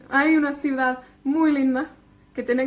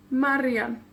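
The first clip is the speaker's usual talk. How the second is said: Marian with the first syllable stressed; MAR-ian, stress on the penultimate syllable. Shown as a demonstration. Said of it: "el énfasis cae en la penúltima".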